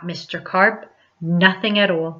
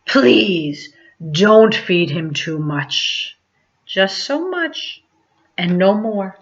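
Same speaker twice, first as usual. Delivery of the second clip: slow, gently warning magician; a hint of a careful old man; lightly voiced Mister Carp; much slower than usual. Mister Carp instructing the child about feeding Otto, slow. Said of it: "said Mister Carp".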